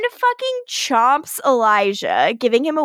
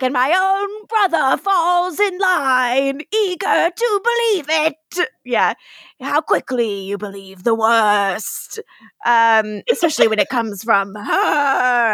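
hurt Klaus; slower than usual. Retold or imitated.

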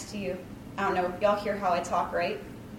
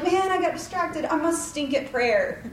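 mock dejection; 6 semitones higher, 3 dB louder than usual.

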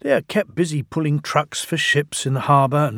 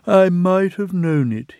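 groaned; 6 semitones higher, 5 dB louder than usual. Acted. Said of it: "he groaned".

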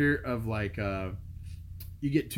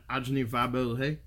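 put-on thick Southern accent; 2 semitones lower than usual. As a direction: play up a Southern country-boy accent. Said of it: "I put on my thickest Southern accent".

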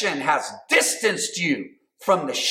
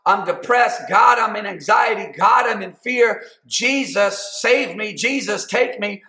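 pleading prayer; 2 semitones higher than usual. Pretend. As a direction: cry out to God for rescue. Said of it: "come open, open heart, open mind".

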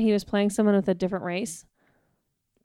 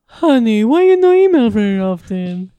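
put-on Persian accent; 7 dB louder than usual. Mock accent joke.

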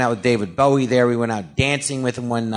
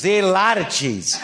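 higher, measured deadpan with laughter leaking in; Christopher Walken impression; 6 semitones higher than usual. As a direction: echo the line gravely as Walken, barely holding back a laugh. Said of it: "He goes".

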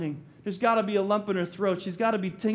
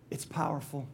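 soft unvoiced whisper, much softer; 5 semitones lower, 7 dB quieter than usual. Shown as a demonstration. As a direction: breathe it like a secret full of awe. Repeated line, first whispered.

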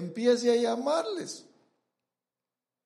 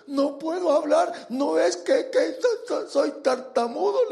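a mild stutter on so- so- soy, pitched up; stammering Moses; 5 semitones higher than usual. Retold or imitated. Preacher voicing Moses as he stammers his excuse to God. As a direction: act out Moses fumbling for words.

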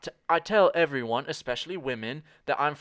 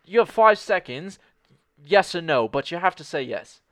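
mock confident ultimatum; pushy deadline; 5 dB louder than usual. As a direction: push him to decide now.

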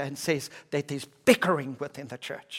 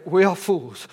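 mildly sarcastic, pitched up a little and louder; 3 semitones higher, 6 dB louder than usual. Acted. Paul writing sarcastically to the church, mildly mocking himself. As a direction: set up a mocking contrast, leaning on "fools". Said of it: "can be quite sarcastic with the people".

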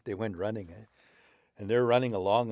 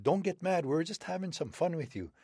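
put-on high coaxing old wolf voice; old man wolf; 10 semitones higher than usual. Old man wolf calming angry wolverine, high coaxing voice. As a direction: soothe him like a sly elder.

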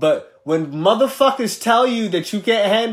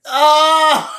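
shocked gasp; 13 semitones higher, 10 dB louder than usual. Real, not acted. Reacting to white pants.

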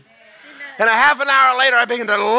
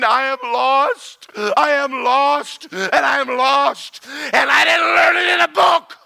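mild retold anguished cry; 4 semitones higher than usual. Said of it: "and I'm screaming".

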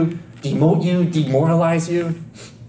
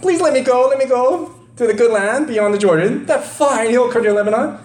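pleading; 7 semitones higher than usual. Shown as a demonstration. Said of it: "That's how it's supposed to be read".

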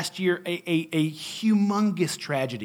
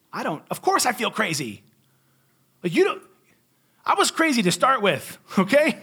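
exasperated rant. Retold or imitated. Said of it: "I'm like".

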